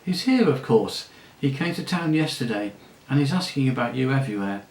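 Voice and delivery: gleeful gossip. Acted. La Saraline tells Aravis her father is in town, gleeful. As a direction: relish the gossip, nearly giggling.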